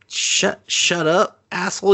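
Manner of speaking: imitating a flustered blow-up; mock angry snap. Angry retort in retold scene.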